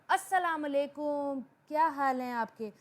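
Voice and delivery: अस्सलाम वालेकुम rising, then क्या हाल हैं आपके falling away; rise then fall. Shown as a demonstration. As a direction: lift the greeting अस्सलाम वालेकुम, let the question after it drop. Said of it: "rise करके बोला है और बाकी मेरा सेंटेंस फॉल".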